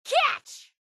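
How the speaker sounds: high, bright call as she tosses it; calling catch. Acted. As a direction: toss it over with a quick call. Tossing an item to partner.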